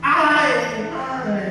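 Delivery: high "Ay", then a sudden drop; acted anguished cry. Rich man burning in the fire, mock anguished cry.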